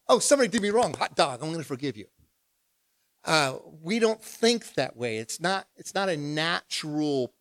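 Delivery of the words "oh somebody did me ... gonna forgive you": mock cheerful forgiveness. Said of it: "We don't walk around saying".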